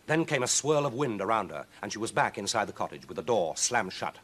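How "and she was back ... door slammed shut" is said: ordinary delivery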